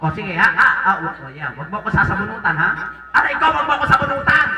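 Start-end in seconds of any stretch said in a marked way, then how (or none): 3.1-4.5 higher, louder playful complaint; mock pained protest. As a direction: protest as if your hair is pulled. Pretend pain at hair pulling. (kunwaring nasasaktang pag-angal)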